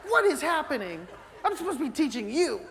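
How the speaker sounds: high, loud, laughing outburst; exasperated laughing protest at being outfished; laughing mock outrage at his wife's catches; laughing disbelief. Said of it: "I'm like".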